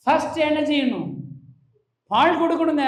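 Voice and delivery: ordinary delivery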